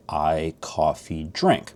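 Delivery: slow careful I coffee drink; slow demo. Shown as a demonstration. Teacher slowly showing learners the object-verb order. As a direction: say I coffee drink slowly, each word separate. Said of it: "you'd say".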